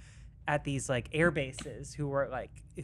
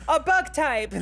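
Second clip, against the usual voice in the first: squeaky high voice; 13 semitones higher, 8 dB louder, slower than usual. Pretend. Afghan locals as Pokemon trainers.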